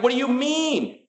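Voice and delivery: high, disbelieving yelp; stunned question. Retold or imitated. Retelling hearing the realtor reject the letter, shocked. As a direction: ask it like the floor dropped. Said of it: "I was like".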